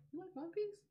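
high, eager mock question; a hint of a gleeful creepy fan; excited killer. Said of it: "And he's like".

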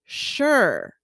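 "sure" with a short vowel, like "shur"; retold correction, "sure" as "shur"; correcting to "shur". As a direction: correct "sure" to rhyme with "her". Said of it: "It's sure".

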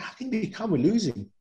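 high-pitched exasperated protest, half-joking; frustrated outburst. Retold or imitated. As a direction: throw it back at him as if the team is losing badly. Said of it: "I'm going".

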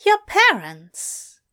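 slow, careful Aziraphale. A narrator's reading. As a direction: ease into the hard question.

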